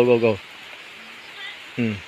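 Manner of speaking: ordinary talk, nothing marked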